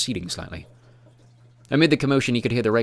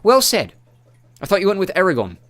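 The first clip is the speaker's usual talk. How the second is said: woman's voice; 10 semitones higher, 8 dB louder than usual. A narrator's reading. Character dialogue, high voice.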